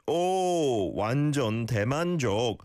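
"Oh" long and rounded, then "완전 대만족" run together; model O sound. Shown as a demonstration. Teacher modelling the phrase for a learner, rounded "Oh". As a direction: stretch the O of "Oh" high, then flow on. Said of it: "as in an O sound".

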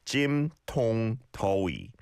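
"Jim, tong, toi" in separate syllables; syllable-by-syllable demo. Shown as a demonstration. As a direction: model each vowel in "Jim, tong, toi" for learners. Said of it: "practice your Korean vowel sounds".

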